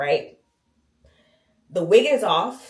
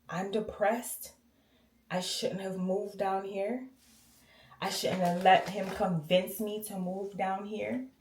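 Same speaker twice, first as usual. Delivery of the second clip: mother's sad voice; 9 dB quieter, slower than usual. Retold or imitated. Mother confessing depression to her daughter, soft and hopeless. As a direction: let it sink, hopeless and quiet. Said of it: "And she's like".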